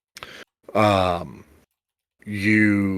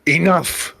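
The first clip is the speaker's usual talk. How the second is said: huge commanding roar, much higher and louder; booming bellow; 9 semitones higher, 4 dB louder than usual. Acted. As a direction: bellow it like a warlord silencing a battlefield. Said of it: "you hear this booming voice from atop it just bellow".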